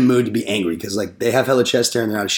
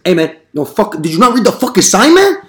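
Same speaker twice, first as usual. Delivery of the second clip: higher, louder mock rant at the salesmen; angry yelling; 8 semitones higher, 7 dB louder than usual. Homeowner berates the salesmen over his sign, angry yelling. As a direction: yell like a furious homeowner. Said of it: "He's like".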